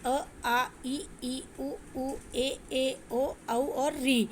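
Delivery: teacher reciting the vowels softly; vowel demonstration. Shown as a demonstration. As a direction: recite अ, आ, इ, ई one by one, soft and drawn out. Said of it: "ये ग्यारह प्रकार के होते हैं".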